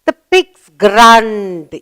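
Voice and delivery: put-on very slow, each word drawn out for a child; slow teaching model. Shown as a demonstration. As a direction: spell it out slowly, "The pigs grunt.". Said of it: "Sound made by the little pig".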